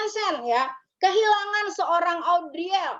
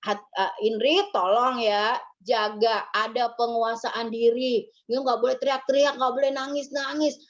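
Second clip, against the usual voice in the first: calm counsel; 5 semitones lower than usual. Retold or imitated. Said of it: "masih aja dinasehatin".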